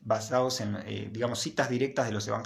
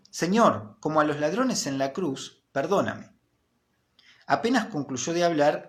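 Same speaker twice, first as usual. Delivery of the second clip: raised, expressive storytelling voice; story narration; 3 semitones higher than usual. A narrator's reading. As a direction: read the parable to the class, lifting each line. Reads Tolstoy story aloud. (lectura narrativa expresiva, voz más aguda)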